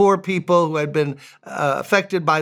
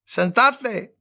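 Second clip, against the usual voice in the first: imitating wife calling out; 6 semitones higher than usual. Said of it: "She's yelling out to people as she's speaking Spanish".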